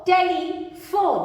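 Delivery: "टेलीफोन" slowly in two parts, टेली, फोन; slow sounding-out. Shown as a demonstration. Teacher joins sounds for learners, "टेलीफोन" slow in two parts.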